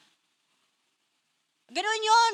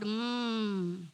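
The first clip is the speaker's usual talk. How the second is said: low, slow, calm voice of God; a hint of a gentle divine voice; voice of the Lord; 5 semitones lower, slower than usual. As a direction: speak slowly and gently as the Lord. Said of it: "Sabi ng Lord".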